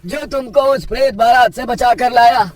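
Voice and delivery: high, insistent uncle voice; questioning village elder. Acted. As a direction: press him for the stranger's identity.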